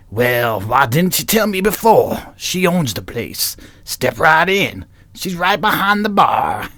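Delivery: slow, lightly voiced biker. Biker letting the newcomers into the bar, slow drawl. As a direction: drawl the welcome slowly. Acted biker reply in script.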